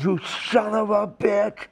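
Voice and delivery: a touch of retold fury; lightly pissed-off curse; mild mock anger. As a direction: spit the insult out, half-hearted. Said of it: "I'm just pissed".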